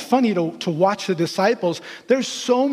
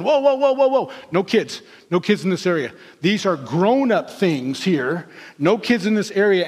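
mock bossy disciples. Disciples stopping kids from reaching Jesus, mock bossy. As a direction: shoo the children off.

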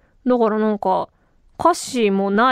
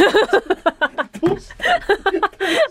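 real high, breaking-up laughter; tired-voiced laugh; 7 semitones higher than usual. Real, not acted. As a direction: laugh helplessly at your own worn-out voice. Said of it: "ちょっと声疲れてますね". (声の疲れに思わず高く笑う)

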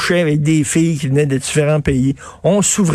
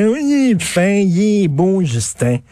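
mock swooning voter; 4 semitones higher, slower than usual. Mocking voters' adoration.

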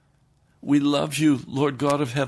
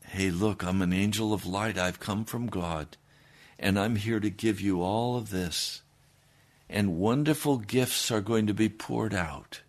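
sly Satan tempting; 5 semitones lower, 4 dB quieter than usual. Acted. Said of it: "Satan is going to step in and say".

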